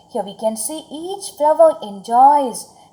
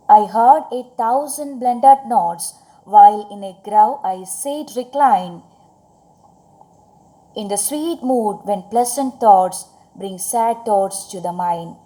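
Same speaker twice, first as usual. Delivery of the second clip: poem recitation. Acted. Reciting the stanza again.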